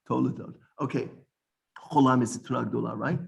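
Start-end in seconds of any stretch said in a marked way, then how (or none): 0.1-0.5 Toledot in three syllables, To-le-dot; careful pronunciation. Shown as a demonstration. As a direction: keep the middle e audible in Toledot. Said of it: "Notice I say Toledot".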